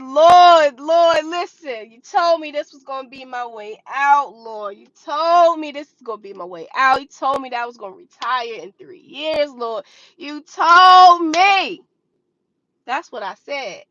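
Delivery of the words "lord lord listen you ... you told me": retold panicked prayer.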